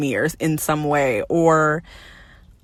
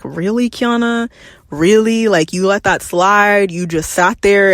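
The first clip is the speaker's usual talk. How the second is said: exasperated with herself. Retold or imitated. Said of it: "I'm irritated with myself".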